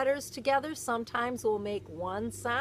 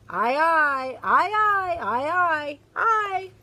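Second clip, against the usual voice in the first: louder, higher rousing aye aye chant; loud joyful pirate chorus; crew cheer; 7 semitones higher, 9 dB louder, slower than usual. Acted. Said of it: "shout the crew".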